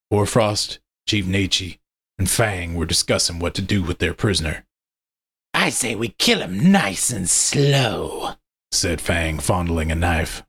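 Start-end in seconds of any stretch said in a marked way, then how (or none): 5.5-8.3 slow, relishing, menacing; menacing werewolf voice. Acted. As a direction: savour every cruel word. Werewolf Fang relishes killing.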